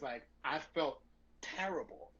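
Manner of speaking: soft, remorseful retelling; on the verge of tears. Retold or imitated. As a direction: let the voice drop away with guilt. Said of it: "on the verge of tears".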